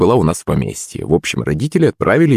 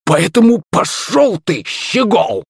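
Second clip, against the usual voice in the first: put-on higher, slow rough drunken jeer; drunk sneer; 12 semitones higher, slower than usual. A narrator's reading. Gap-toothed drunk tells the boy off, rough sneer. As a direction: spit it like a wasted thug.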